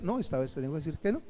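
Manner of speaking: calm firm no. Shown as a demonstration. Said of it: "Pero no tengo que gritar".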